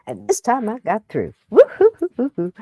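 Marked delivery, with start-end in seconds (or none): 1.5-2.5 victory whoop. Real, not acted. Finally got through.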